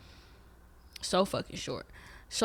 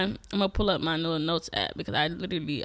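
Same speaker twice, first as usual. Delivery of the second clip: usual speaking voice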